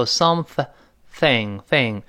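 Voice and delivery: "something" with a lightly tongued th; clear th sound. Shown as a demonstration. Teacher showing learners the th, careful articulation. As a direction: say "something，thing" slowly, tongue tip out for the th. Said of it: "中间teach要轻吐舌头".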